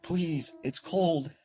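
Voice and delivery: put-on high, drawn-out child's plea; eerie young boy. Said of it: "And he's like".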